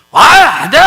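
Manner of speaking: loud acted outburst; sudden loud, angry protest; angry refusal. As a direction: shout it as the furious brother. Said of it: "막 화를 내고 막".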